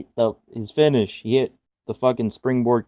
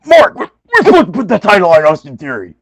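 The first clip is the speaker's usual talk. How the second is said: high, louder whiny protest; mock protesting executive; 9 semitones higher, 8 dB louder than usual. Podcaster voicing a panicked executive objecting to the boss, high. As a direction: play the panicked exec objecting. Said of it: "Hickenbottom's in the background, like".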